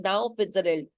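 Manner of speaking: slow, firm reading; severe. Retold or imitated. A hint of Mrs Pearson silencing the aunt, mildly severe. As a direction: lay it down slowly and firmly. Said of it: "बहुत severely बोलती है".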